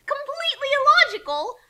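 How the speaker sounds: loud, high battle cry; shouted insult. Acted. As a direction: yell it as you strike. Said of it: "shouted insults in battle".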